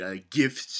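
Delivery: usual speaking voice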